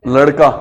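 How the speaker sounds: लड़का with a retroflex flapped ड़; demo word. Shown as a demonstration. Teacher reading लड़का aloud for the class, crisp and clear. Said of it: "ये बताओ".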